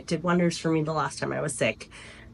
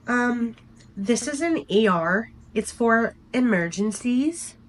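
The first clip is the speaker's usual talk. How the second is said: slow, higher, sassy mock of the doctor; sassy put-down, raised and slowed; 5 semitones higher, slower than usual. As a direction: drag it out like a condescending doctor. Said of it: "sassafras doctor leans into her hip".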